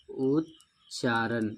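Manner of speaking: उच्चारण stretched very slowly, every sound held; drawn-out demo. Shown as a demonstration. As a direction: slowly draw out उच्चारण for students. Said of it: "उच्चारण बनेगा". (उच्चारण को बहुत धीरे खींचकर बोलना)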